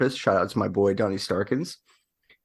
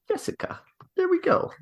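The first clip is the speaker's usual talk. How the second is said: whispering. Real, not acted. Whispering her name while writing.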